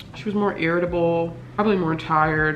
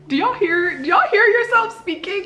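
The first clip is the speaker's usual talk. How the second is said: exasperated disbelief; 14 semitones higher than usual. Real, not acted. Exasperated at people's cure advice.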